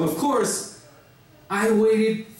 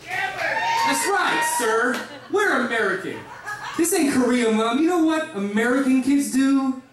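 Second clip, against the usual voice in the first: higher, swaggering all-American boast to his mom; cocky brag; 5 semitones higher than usual. Retold or imitated. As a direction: brag to mom like a proud party kid. Son defiantly brags to mother.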